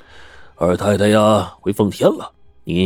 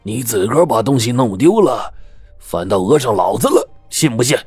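cursing; 3 semitones higher than usual. Acted. Gatekeeper berating the young man, gruff and angry. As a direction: snarl it out, building to the threat of jail. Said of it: "张口就骂".

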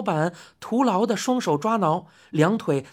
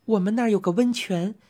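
soothing lady customer. Acted. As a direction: coax the old man kindly. Customer explains.

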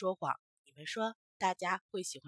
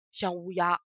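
put-on child voice; 3 semitones lower, 5 dB louder than usual. Reply in other voice.

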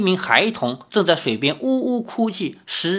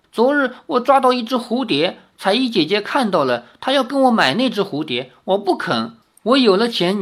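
put-on child voice; 4 semitones higher than usual. Child explains the trade.

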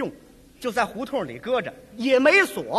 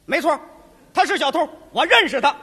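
shouting; 2 semitones higher, 6 dB louder than usual. Acted. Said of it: "冲我弟弟也喊上了".

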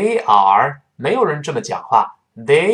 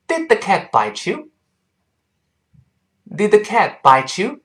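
slow question for repeating, pitched up; full model reading; 7 semitones higher, much slower than usual. Shown as a demonstration. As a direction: read the whole question slowly, linking bite and you as ch. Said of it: "我们跟老师完整读一遍".

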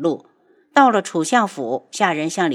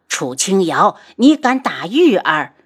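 loud, angry mother's outrage; 5 dB louder than usual. Acted. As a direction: scold her for hitting her daughter. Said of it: "她怒道". (怒声质问)

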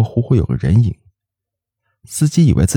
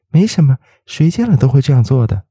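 bashful smile; 7 semitones higher than usual. A narrator's reading. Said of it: "那姑娘不好意思地笑笑说".

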